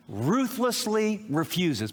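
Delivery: Ruthlessly refuses, each word slow and weighted; slow stressed phrase. Shown as a demonstration. Pastor to the congregation, slowly weighting Ruthlessly refuses. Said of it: "I chose these words very carefully".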